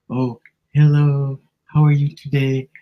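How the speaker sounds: mock artificial niceness, lightly done; fake sweet greeting. Shown as a demonstration. Showing how a faked mood sounds, overly sweet hello. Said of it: "I'm making a mood of it".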